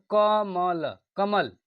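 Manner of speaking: कमल with weight on म; teacher demonstrating stress in कमल; stress demo on कमल. Shown as a demonstration. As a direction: lean on the म of कमल. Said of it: "यहाँ पर म पर पड़ रहा है ना".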